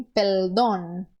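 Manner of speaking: perdón with an l in place of the r; lambdacism. Shown as a demonstration. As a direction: say perdón as peldón. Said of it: "Em vez de dizer perdão".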